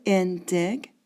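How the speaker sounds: "In dig" as two beats, cut off mid-word; syllable-pair scansion. Shown as a demonstration. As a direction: sound out "In dig" as one foot. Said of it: "counting two syllables and break".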